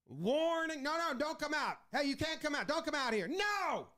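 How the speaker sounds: high, whiny manager protest, far above his own voice; hammed-up pleading no; Michael Scott style protest. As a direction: wail no like a sitcom boss losing it. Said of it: "Straight Michael Scott".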